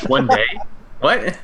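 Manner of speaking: high, startled question; surprised. Real, not acted. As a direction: react in disbelief. Player reacts to contract.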